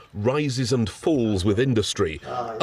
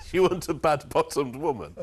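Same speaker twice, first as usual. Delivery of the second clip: laughing disbelief; 4 semitones higher than usual. Real, not acted.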